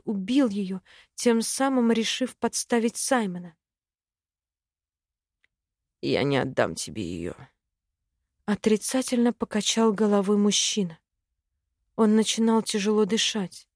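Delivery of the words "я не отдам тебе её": much lower, quieter, menacing refusal; a low, angry growl of a refusal. A narrator's reading. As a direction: dragon rising inside, deep and angry. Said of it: "дракон очень злился".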